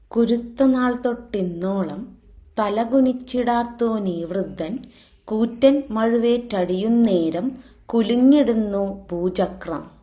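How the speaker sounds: measured, metrical verse reading; poem recitation. Acted. Teacher reciting a verse about the old tree, poem recitation. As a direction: recite it in metre, lightly lilting.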